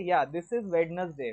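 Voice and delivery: Wednesday said slowly with the d, WED-nes-day; teacher granting the spelling version; spelling-based reading. Shown as a demonstration. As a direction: read Wednesday letter by letter. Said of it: "spelling के हिसाब से".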